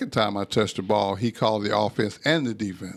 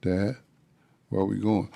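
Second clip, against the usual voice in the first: meek voice; 3 dB quieter than usual. Retold or imitated. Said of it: "took all the bass out of my voice".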